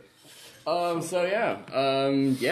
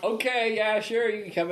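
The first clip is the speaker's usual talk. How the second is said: put-on South African accent; 7 semitones higher than usual. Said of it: "distinctive South African accent".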